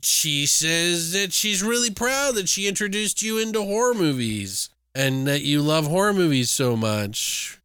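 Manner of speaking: drawn-out, lilting lead-up; caller stalling coyly. Acted. Killer posing as friend tells her about horror movies, coy. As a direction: stretch the opening word, then coax along. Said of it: "And he's like".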